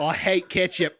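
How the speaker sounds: blunt joking Australian; Australian accent. Pretend. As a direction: announce it in a put-on Australian accent. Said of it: "talk the rest of this episode in that accent".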